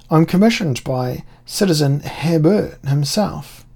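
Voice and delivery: high, whining, fawning voice; wheedling whine. Acted. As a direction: grovel and whine to the officer. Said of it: "I changed my voice to a wheedling whine".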